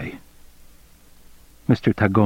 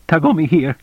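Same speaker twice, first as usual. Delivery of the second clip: squeaky voice; 7 semitones higher than usual. A narrator's reading. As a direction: voice cracking up high on the greeting. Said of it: "His voice squeaked".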